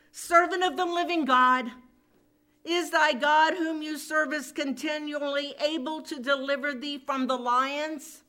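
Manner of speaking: loud, high anxious plea; lamenting cry. Acted. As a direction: call out as a woeful king, easing toward the end. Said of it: "a lamentable voice".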